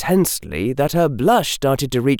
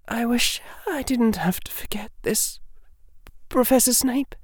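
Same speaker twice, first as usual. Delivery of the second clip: whispering; 12 semitones higher, 6 dB quieter than usual. Acted. Sad farewell whisper.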